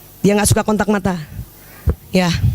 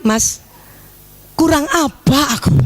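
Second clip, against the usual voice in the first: wrong way, demanding. Shown as a demonstration. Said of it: "Bukan kalimatnya".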